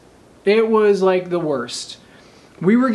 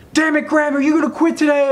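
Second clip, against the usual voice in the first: retold instructor taunt; 8 semitones higher, faster than usual. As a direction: needle him like a fed-up instructor. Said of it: "the instructors are like".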